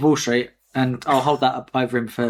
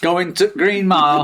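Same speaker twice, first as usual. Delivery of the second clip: drawn-out mock Yorkshire accent; slow it down into comic Yorkshire; 3 semitones higher than usual. Quiz player joking about a film title, Yorkshire accent. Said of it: "like, Yorkshire".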